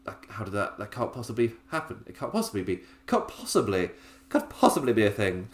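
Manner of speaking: quiet, incredulous posh English voice; mock posh disbelief, hushed at first; a posh lady who cannot believe she lost. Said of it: "I made it so incredibly posh".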